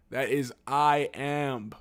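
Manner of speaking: "I am" as two slow, separate words; corrected pronunciation. Real, not acted. Reader correcting his own misreading, "I am" drawn out. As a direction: stretch out "I" then "am", emphatically. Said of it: "That's a capital I".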